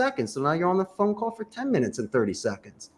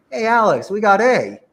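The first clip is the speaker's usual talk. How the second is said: louder, one item then a pause; punchy with pause; 4 semitones higher, 6 dB louder than usual. Shown as a demonstration. Coach showing the right way to offer options, punchy. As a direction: hit the first option and stop. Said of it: "you better say it and pause".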